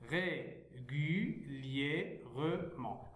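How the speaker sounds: régulièrement stretched out with clear gaps; syllable by syllable. Shown as a demonstration. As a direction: say régulièrement one syllable at a time. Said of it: "lire les mots syllabiquement".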